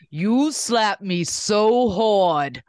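put-on slow, loud New York accent; doing a Bubba impression. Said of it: "Her Bubba impression".

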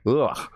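rough croaky "ugh"; chrypiący odgłos. Shown as a demonstration. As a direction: show off a failing voice with a short grunt. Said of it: "My voice is like".

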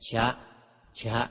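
"ชะ" with an h blended in, jha; aspirated Pali consonant. Shown as a demonstration. Teacher demonstrates Pali letters to readers, h-blended "ชะ". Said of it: "ออกเสียงชอเชอกล้ำหอหีบเป็น".

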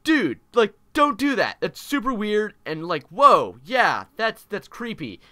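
high, alarmed objection, loudest on the first words; freaked-out girl. Retold or imitated. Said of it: "she freaks out".

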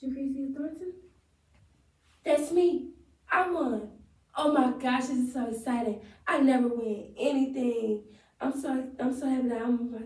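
lightly acted joyful winner; monologue take.

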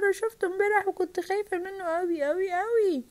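high, urgent alarm; alarmed witness. Acted. Witness tells crowd of the monster, alarmed. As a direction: pitch it up in acted fright.

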